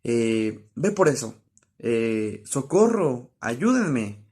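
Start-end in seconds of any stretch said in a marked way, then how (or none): 0.7-1.3 a firm little order; teacher modelling an order; commanding. Shown as a demonstration. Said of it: "cuando damos órdenes". 2.4-4.2 a mild, half-acted cry for help; teacher modelling an exclamation; mock call for help. Shown as a demonstration. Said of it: "entonación de necesidad".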